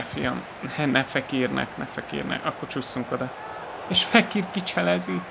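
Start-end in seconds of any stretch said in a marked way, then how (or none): 3.9-5.2 high, excited play-by-play; excited commentary. Real, not acted. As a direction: call the dribble like a commentator. Opponent dribbles past.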